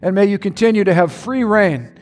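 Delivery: earnest prayer with music under it. Acted. Pastor praying over congregation, earnest prayer voice. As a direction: pray over the congregation, steady and devout.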